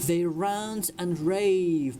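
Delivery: slow, deliberate sentence for learners; slow model reading. Shown as a demonstration. Teacher reads a story sentence to English learners, slowly. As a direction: draw each word out for students.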